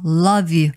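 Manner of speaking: "love you" joined as "luv-yu"; linked pronunciation. Shown as a demonstration. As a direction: link the v of "love" straight into "you". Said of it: "항상 우리 하는 발음이죠".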